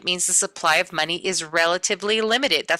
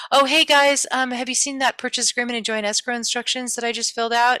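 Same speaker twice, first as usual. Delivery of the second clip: formal jargon talk; 4 semitones higher than usual. Pretend. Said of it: "Do people really talk like that?".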